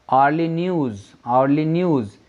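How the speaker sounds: "आर्ली" repeated, starting on an AA vowel; silent H. Shown as a demonstration. Teacher shows the vowel sound, "आर्ली" with silent H. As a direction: say "आर्ली" without an H, twice. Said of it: "आ उच्चारण आ रहा है".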